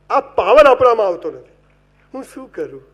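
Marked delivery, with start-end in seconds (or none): 2.1-2.8 soft, hammed-up self-pity; a whiny lovesick moan; mock whining.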